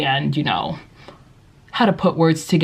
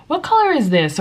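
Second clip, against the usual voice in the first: high classroom question; high kindergarten teacher voice; teacher asking class; 8 semitones higher than usual. Shown as a demonstration. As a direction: quiz little kids, pitched up. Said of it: "just by asking".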